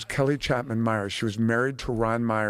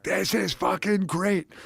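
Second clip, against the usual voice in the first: higher, slow delighted exclamation; a mogul gushing down the phone; mogul raving; 7 semitones higher, slower than usual. Retold or imitated. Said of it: "he's like".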